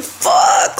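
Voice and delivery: whispered fuck under breath; whispered curse. Retold or imitated. Recalling her slip, whispered curse. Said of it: "But I was just like".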